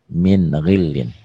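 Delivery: min ghillin spoken slowly and clearly; slow recitation. Shown as a demonstration. Teacher modelling min ghillin slowly. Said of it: "Tulisan dan bacaan sama".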